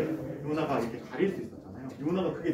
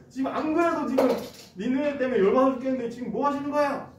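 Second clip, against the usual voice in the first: higher, louder furious complaint; arguing angrily; 8 semitones higher, 4 dB louder than usual. Acted. Jonah furious at God about Nineveh, higher and louder in rage. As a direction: vent the anger straight at God. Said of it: "막 이렇게 따졌습니다".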